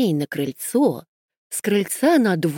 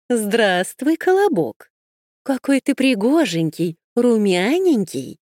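sly fox voice; 3 semitones higher than usual. Acted. The fox flatters.

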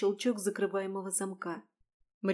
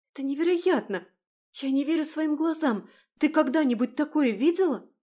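amazed; 7 semitones higher, 7 dB louder than usual. Acted. Изумление у зеркала.

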